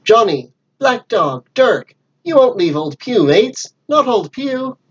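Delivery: abandoned Pugh calls out desperately after his mates; desperate calling. Acted. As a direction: beg the fleeing crew not to abandon him. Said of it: "calling out".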